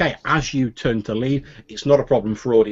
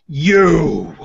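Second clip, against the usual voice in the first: loud, higher "You!" thrown across the room; accusing call; 6 semitones higher, 6 dB louder than usual. Acted. Noble spots his enemy in the room, accusing call. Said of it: "hear a voice from some small way in the room go".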